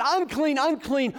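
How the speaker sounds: preacher voicing the leper's warning cry. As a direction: shout the warning in full preaching voice. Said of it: "that yells out".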